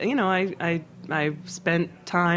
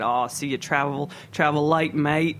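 mock Kiwi accent. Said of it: "I'll screw up the accent".

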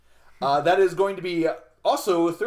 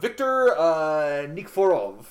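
put-on Russian accent; slower than usual. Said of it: "sorry for that Russian accent".

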